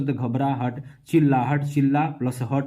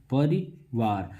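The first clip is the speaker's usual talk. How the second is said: परिवार said very slowly, each syllable drawn out; slow, drawn-out word; 3 semitones lower, much slower than usual. Shown as a demonstration. Teacher showing students the word, drawn out slowly. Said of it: "देखिए परिवार".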